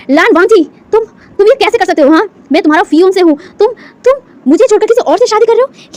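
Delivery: high, loud, shrieking disbelief; screaming in outrage. Acted. Fiancée screaming at him for marrying someone else. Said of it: "वो चीख कर कहती है".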